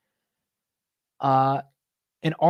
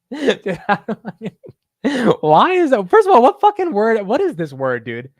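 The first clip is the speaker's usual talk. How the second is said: high loud laughing outburst; laughing frustration; 9 semitones higher, 8 dB louder, slower than usual. Real, not acted. Streamer cracking up at a word he can't say, laughing loudly.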